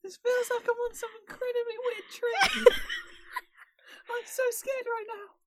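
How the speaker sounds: very high squeaky ferret voice. Pretend. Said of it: "speak in the ferret voice".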